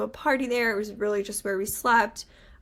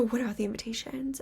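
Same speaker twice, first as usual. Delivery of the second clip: hushed whisper; 6 dB quieter, faster than usual. Retold or imitated. Retelling her panicked hushed reaction.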